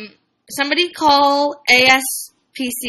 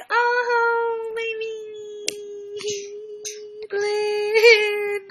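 high, sing-song coo; cooing greeting; 6 semitones higher, 6 dB quieter, much slower than usual. Real, not acted. Host greets a beloved viewer by name, cooing. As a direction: croon it high and drawn out.

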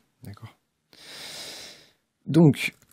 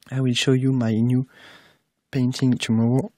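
slow, clear, a little louder; slow example sentence; 3 dB louder than usual. Shown as a demonstration. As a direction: read it out like a model sentence. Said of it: "plusieurs exemples".

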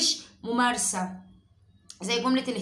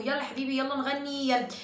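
put-on coaxing child; 3 dB quieter than usual. Shown as a demonstration. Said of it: "غني له".

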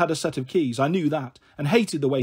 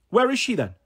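higher, lightly voiced prying pensioner; suspicious old woman; 6 semitones higher than usual. Old Kath peering over the balcony for Mum, mildly suspicious. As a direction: peer down and ask suspiciously.

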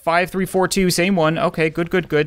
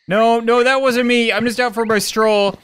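innocent act; 7 semitones higher than usual. Pretend. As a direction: play it cool, caught red-handed. Caught by neighbor, feigning innocence.

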